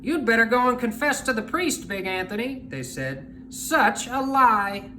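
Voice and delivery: mildly loud scolding crowd; a touch of scorn; mocking townsfolk. Townspeople mock Anthony.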